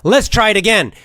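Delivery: upbeat, rising push to try again; teacher pushing the class on; encouraging coach. Shown as a demonstration. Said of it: "And then you'll say".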